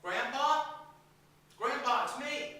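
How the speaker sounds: high, pleading grandson voice; tearful muffled scam call. Retold or imitated. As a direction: plead like a young caller on the phone. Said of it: "the call goes like this".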